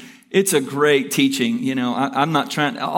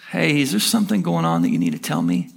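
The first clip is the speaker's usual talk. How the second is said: gentle, lower-pitched concern; low, kind private question; kindly; 9 semitones lower than usual. Retold or imitated. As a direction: quote a kind pastor gently checking in. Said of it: "in a very kind way".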